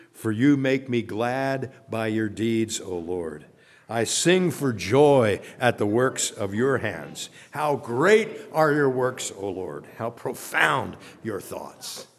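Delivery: slow, deliberate congregational recitation; measured recitation. Real, not acted. Pastor leading congregation in the weekly verse, slow recitation. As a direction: recite it slowly so others can join in.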